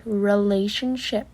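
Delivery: Relationship said slowly, each syllable placed; careful retry. Shown as a demonstration. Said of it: "I can't say that word properly".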